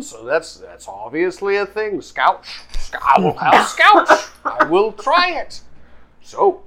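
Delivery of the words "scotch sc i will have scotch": "scotch" whispered high, with a plain English vowel. Shown as a demonstration. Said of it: "In English, we call it scotch".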